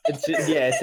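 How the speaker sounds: high squealing laugh into words; can barely speak for laughing. Real, not acted. Cracking up at joke.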